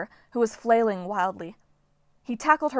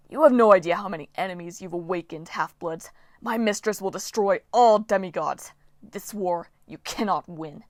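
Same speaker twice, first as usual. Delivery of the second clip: hissing spirit. Acted. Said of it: "Dylan hissed at them".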